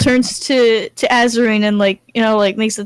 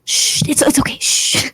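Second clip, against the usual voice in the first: whispered comfort; 4 semitones higher than usual. Acted. Brunhild hushing the crying Azarine, whispered. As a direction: whisper it to calm her.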